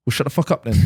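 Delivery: put-on kid's rude retort broken by laughter; laughing retort. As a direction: deliver the insult while cracking up. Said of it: "the kid just turns around and goes".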